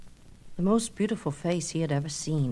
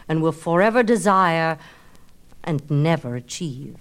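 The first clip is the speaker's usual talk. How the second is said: lightly voiced goddess; 4 dB louder than usual. Aphrodite decreeing vengeance, lightly voiced and stately. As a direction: pronounce the curse with weight. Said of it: "The goddess said".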